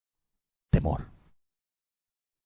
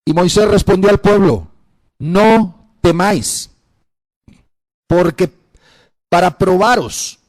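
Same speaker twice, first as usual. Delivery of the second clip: loud, measured scripture proclamation; preach; 8 semitones higher, 7 dB louder, slower than usual. Acted. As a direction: proclaim it in broken, weighty phrases. (lectura bíblica proclamada con fuerza)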